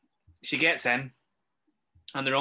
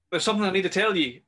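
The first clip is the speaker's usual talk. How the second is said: higher and louder, dragging the line out; urgent, raised voice over the walkie; retold shout; 8 semitones higher, 6 dB louder than usual. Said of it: "is shouting".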